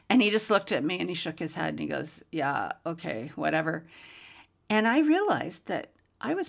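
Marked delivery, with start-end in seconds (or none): 2.3-3.9 dismissive. Retold or imitated. Atheist mechanic dismissing.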